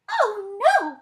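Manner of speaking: high, loud cry of alarm; mother's cry. Acted. Wilkie's mother cries out at the news, high and loud. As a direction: squeal it out like a worried mom. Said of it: "cried Wilkie's mother".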